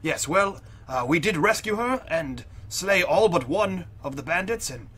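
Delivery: lightly put-on formal character voice; pompous adventurer, aggrieved. Adventurer complains of an ungrateful bar owner, lightly voiced, formal. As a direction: complain in measured, over-proper phrases.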